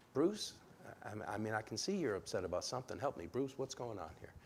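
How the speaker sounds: soft, calm appeal; calm, reassuring. Shown as a demonstration. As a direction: gently coax him to talk. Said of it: "Use the name".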